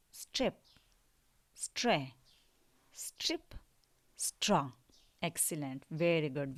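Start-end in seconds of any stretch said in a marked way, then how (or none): 0.1-4.7 whispered model word. Shown as a demonstration. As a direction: breathe स्ट्रिप out in a whisper. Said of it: "अब पढ़े मेरे साथ".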